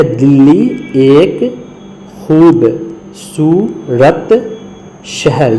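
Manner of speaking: very slow, word by word, stretching خوبصورت; slow reading. Shown as a demonstration. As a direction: spell it out slowly for the class. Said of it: "یہاں ہے کا استعمال دیکھیے". (بہت آہستہ، لفظ بہ لفظ)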